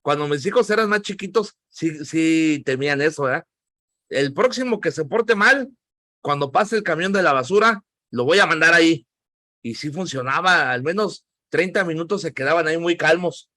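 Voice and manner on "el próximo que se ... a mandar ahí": mildly stern imitation of a dad's warning; threatening parent. Dad scaring his small children, mildly acted threat. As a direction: lay down a mock threat. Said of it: "es una manera de meterles miedo".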